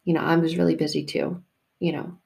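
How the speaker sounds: patient and understated; gentle, no passive aggression. Acted. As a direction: let them off kindly, without blame. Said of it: "doesn't say it with any passive aggressiveness".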